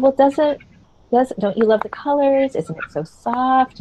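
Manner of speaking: approving mother. Retold or imitated. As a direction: coo at him like an accepting mother. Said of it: "The approving mother".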